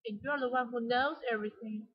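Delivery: emphasize "knows" in the line; "knows" stressed to show surprise. Shown as a demonstration. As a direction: lean on the word "knows". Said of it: "so he emphasized knows".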